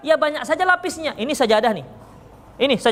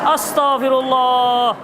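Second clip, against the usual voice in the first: slow, drawn-out exasperated astagfirullah; exasperated sigh; much slower than usual. Real, not acted. Preacher exasperated at a repeated question, drawn out. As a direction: stretch it out in mock despair. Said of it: "Minumlah saya dulu untuk mendinginkan".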